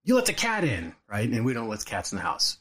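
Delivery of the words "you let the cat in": raised-pitch mock dad summons; imitating stepdad calling. Stepdad calling his boy in from playing, imitated stern call. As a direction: call out high, drawn out, like a cross dad. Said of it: "he calls me".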